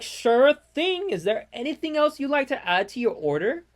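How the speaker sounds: mock the drive-thru worker's sunny script; customer service voice. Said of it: "he was like".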